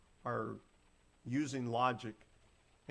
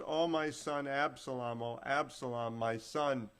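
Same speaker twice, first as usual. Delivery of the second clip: mild crying lament. Acted. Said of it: "the king was crying with a loud voice".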